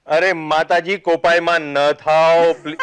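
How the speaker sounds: slow, laughing plea to an angry goddess; hammed-up begging through laughter; mock pleading. Teasingly begs the angry goddess.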